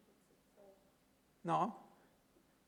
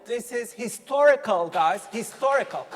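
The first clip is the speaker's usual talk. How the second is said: excited emphasis; 2 semitones higher, 6 dB louder than usual. Real, not acted. Hyping the new AI release.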